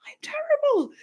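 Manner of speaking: high, whispered mock self-blame; mock self-reproach. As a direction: breathe it out, hammed-up guilt. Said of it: "And I'm like".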